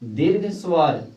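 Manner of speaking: slow, deliberate दीर्घ स्वर; teacher's slow dictation; slow demo. Shown as a demonstration. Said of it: "दो number में आता है दीर्घ स्वर".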